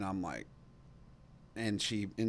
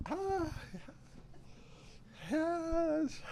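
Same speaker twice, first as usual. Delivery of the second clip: eager yes; 6 dB quieter than usual. Retold or imitated. Eager reply to lunch invite.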